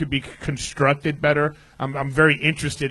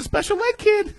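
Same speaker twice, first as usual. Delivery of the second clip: laughing shout, much higher and louder; shrieking laugh; 6 dB louder than usual. Real, not acted. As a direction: crack up at the joke.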